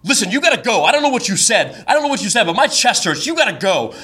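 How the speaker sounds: half-shouted, high-pitched telling-off; mock shouting. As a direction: imitate her arguing insistently without full volume. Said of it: "they are kind of shouting at each other".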